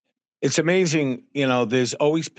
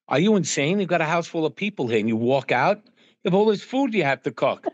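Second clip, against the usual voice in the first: retelling their outburst, pitched higher; mock freaked-out scolding; 5 semitones higher than usual. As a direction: play the family's incredulous alarm, half-hammed. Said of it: "were freaking out".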